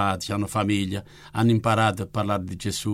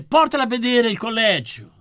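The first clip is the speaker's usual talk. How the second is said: quoted nun; 12 semitones higher, 4 dB louder than usual. Retold or imitated. Retelling the nun's instruction.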